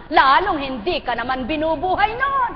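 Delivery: rising from firm to a loud preaching cry; preacher's crescendo; building shout. Real, not acted.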